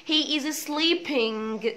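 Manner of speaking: reading and playing with a hard g sounded; wrong g ending. Shown as a demonstration. Teacher mocking the wrong ng-g ending. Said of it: "ما ينفعش".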